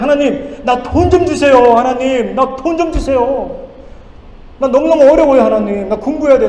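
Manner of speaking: loud, high whining plea to God; complaining prayer. Retold or imitated. Student pastor pleading with God for money, loud and whiny.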